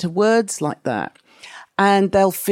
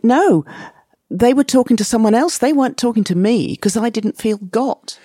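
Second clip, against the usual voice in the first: unheard patient's protest; 4 semitones higher than usual. Retold or imitated. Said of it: "they think".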